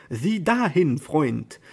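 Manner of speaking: lively call. Acted. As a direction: call out eagerly to his friend. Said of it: "rief er mit lebhafter Stimme".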